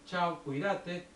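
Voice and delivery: slow, cold clipped goodbye; cold and curt. Retold or imitated. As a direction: brush her off coldly, drawn out. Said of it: "así frío y cortante". (despedida fría y cortante, lenta)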